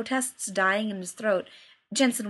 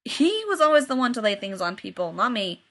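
mild snarl. Acted.

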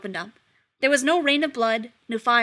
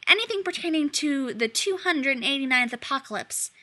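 sugary sweet-talk; 4 semitones higher than usual. Acted. Demon's phone voice continues.

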